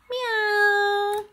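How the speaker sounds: high playful meow; cat meow. Pretend. Cat noise at viewer.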